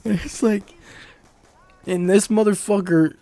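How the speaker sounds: high laughing voice through the words; cracking up while telling it; giggling fit. Real, not acted. Laughing at the blacksmith.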